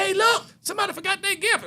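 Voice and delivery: very high reenacted call; high-pitched excitement; excited discovery. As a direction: alert friends to a surprising find. Reenacts finding the gift.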